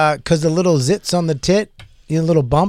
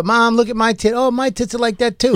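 mock girl voice; 8 semitones higher than usual. Acting out girls talking to mom.

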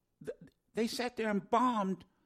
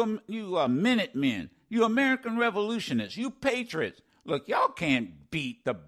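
mocking redcoat; 4 semitones lower than usual. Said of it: "Didn't some say that about the colonists?".

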